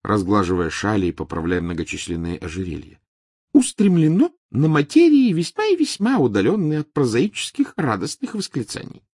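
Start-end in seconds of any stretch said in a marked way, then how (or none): 3.5-9.0 dignified. A narrator's reading. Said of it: "с достоинством сообщила".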